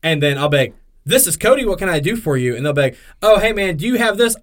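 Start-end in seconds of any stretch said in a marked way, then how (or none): 1.0-2.5 high, bright mock customer-service voice; cheerful store-clerk phone pickup; confident phone greeting. Mock phone answer as himself. 3.2-4.4 higher, louder imitation of a caller; a put-on customer asking for a product; mock customer voice. Voicing male customer.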